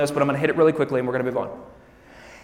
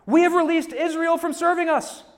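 Pharaoh's regret; 11 semitones higher, 4 dB louder than usual. A narrator's reading. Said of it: "and said".

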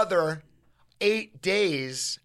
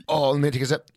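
talking around a sip; words just before drinking; while sipping a drink; faster than usual. Real, not acted. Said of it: "Take a nice sip".

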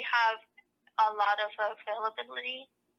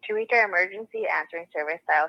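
phone menu voice. Real, not acted. After-hours recorded phone message.

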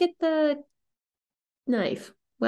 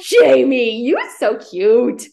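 louder, slow gushing delight; 6 dB louder, much slower than usual. Real, not acted. Co-host swooning over Jamie, slow and louder.

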